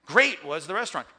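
"Great" punched loud at the front; stress on GREAT. Shown as a demonstration. Teacher recalling the fronting example, "Great" emphasized. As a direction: hit "Great" hard, let the rest fall. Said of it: "because it's emphasis".

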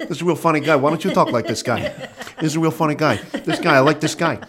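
lightly voiced De Niro impression; a hint of De Niro's gruff banter; a bad De Niro impression, barely changed voice; terrible De Niro. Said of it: "my terrible Robert De Niro".

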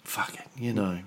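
hushed crude aside; whisper. Real, not acted. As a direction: drop to a whisper. Crude aside dropped low.

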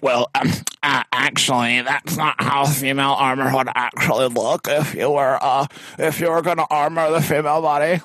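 lightly voiced know-it-all; a hint of a pedantic nerd; nasal smug neckbeard. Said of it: "these people on the internet come out of the woodwork".

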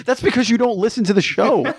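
laughing while teasing. Real, not acted. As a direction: laugh through the line.

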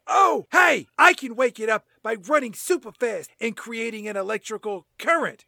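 Flash voice. Acted. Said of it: "the Flash says".

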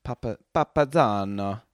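hammed-up attempt at a Portuguese accent; clumsy Portuguese impression, sounding out the word; terrible Portuguese accent. Shown as a demonstration. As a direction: try it in a bad Portuguese accent. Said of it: "That's my terrible Portuguese impression".

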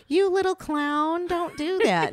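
high, slow mock-gentle scolding; mock prim driver. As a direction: sweeten it like a prissy driver. Mock polite driving insult.

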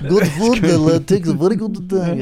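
put-on Italian accent. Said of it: "really bad Italian accent".

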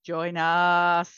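low, drawn-out demon call; Kandarian demon voice. Pretend. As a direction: summon like a demon from below. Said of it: "Kandarian demon voices".

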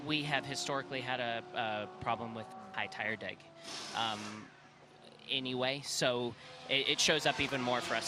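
halting, with long pauses and restarts; distracted stumbling. Real, not acted. Driver answering reporter while watching telemetry, stumbling distractedly. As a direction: stumble through it, attention half elsewhere. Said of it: "Sorry, I'm stuttering through a little bit".

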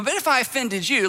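a light pat-on-the-head tone; patronizing apology. Retold or imitated. Apologizer soothing the offended person like a child, mild condescension. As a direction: talk down sweetly, just a little. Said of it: "a little pat on the head".

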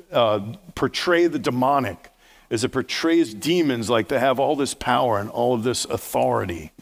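ordinary talk, nothing marked

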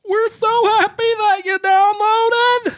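high, slow, overdone sweet voice; sultry narrator. Pretend. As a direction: coo it like a syrupy announcer. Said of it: "In your most sultry voice".

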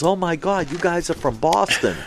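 a touch of an amazed fan; excited shop man. Retold or imitated. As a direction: quote him like he can't believe his luck. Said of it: "he was all excited".

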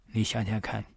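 ordinary talk

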